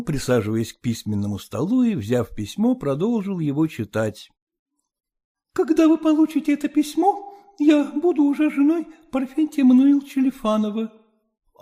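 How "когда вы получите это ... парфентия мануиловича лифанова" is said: daughter's letter voice. Acted.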